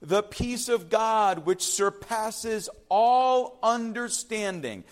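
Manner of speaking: very slow, stretched words; slow emphatic reading. Shown as a demonstration. Preacher quoting Paul to the congregation, slow and weighty. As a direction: lean on all understanding. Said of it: "he's frank and direct".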